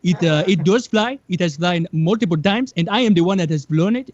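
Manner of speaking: put-on proud inventor in a Nigerian accent; a grand Nigerian inventor boasting.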